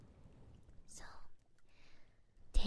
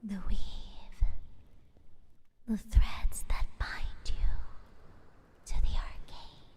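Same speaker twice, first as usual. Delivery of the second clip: guided meditation; 4 dB louder, slower than usual. Acted. Healer guiding a patient to relax, slow meditative whisper. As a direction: ease them into calm word by word.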